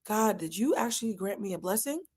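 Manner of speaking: soft, disbelieving question to God; awed prayer. Acted. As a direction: ask God quietly, barely believing it. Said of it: "at the height of me recognizing".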